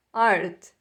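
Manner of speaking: "Art" closing on a plain T, no added vowel; final T sound. Shown as a demonstration. Teacher repeating the correct word for students, final T sound. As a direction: say "Art" low, ending right on the T. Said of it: "termina com o som de T".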